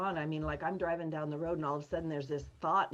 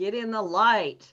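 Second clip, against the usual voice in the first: very loud, high, shouted yell; 5 semitones higher, 11 dB louder than usual. Retelling what he said to them: imitating someone yelling. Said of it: "yelling like that".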